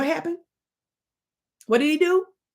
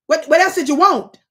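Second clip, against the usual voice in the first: exasperated yell; 5 semitones higher, 7 dB louder than usual. Acted. Mock scolding Shepherd.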